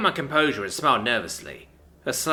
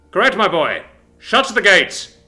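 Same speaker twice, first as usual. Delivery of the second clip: loud booming slow bellow; 7 semitones higher, 10 dB louder than usual. A narrator's reading. Dawn bellows at his marines to shut the gate, loud slow bellow. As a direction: bellow the order, drawn out and loud. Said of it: "Dawn bellowed".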